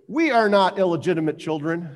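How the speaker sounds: voiced as an indignant crowd protesting; loud protest. The crowd answers Jesus about their parentage, loud protest. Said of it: "must have said it pretty loudly".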